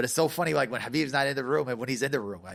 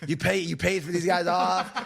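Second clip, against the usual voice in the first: higher-pitched retold outrage; mock angry accusation; 5 semitones higher than usual. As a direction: lightly imitate sore losers accusing a cheat. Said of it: "they got, like, so mad".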